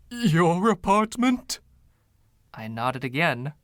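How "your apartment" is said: high, slow and louder in disbelief; incredulous. Acted. Ghost learning his rooms are the tenant's apartment, incredulous. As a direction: stretch out the shock.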